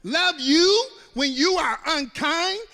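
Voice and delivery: loud, high, half-sung disbelief; high, loud incredulous complaint; mock outraged protest. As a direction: wail it in comic protest. Mock outrage at God's ask.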